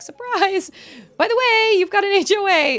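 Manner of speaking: high, loud sing-song mock announcement; spring it on them like a gleeful prankster; imitating a chirpy HOA surprise; mocking HOA people. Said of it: "they're like".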